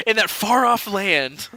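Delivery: teasing, slowed-down mock wonder; mock-grand. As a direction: draw it out with playful grandeur. Mock-grand teasing about the distant place.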